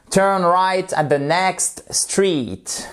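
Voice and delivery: "Turn right at the next street" said slowly, word by word; slow demo. Shown as a demonstration. Teacher modelling a sentence slowly for French learners. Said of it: "Vous faites lentement".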